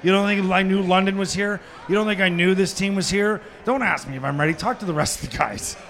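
offended, rapid-fire comeback; indignant inner retort. Retold or imitated. Player answering the coach in his head, indignant. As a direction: scoff at being asked. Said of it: "In my head, I'm going".

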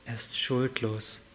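ordinary delivery

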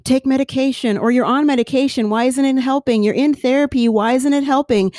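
nagging friends who don't get it; impatient well-meaning others. Retold or imitated. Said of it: "everybody else is saying to you".

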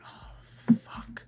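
breathy, near-whispered dismay; deflated reaction. Retold or imitated. Host reliving the game going to overtime, whispered dismay. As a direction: let it out under your breath, retold. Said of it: "I was like".

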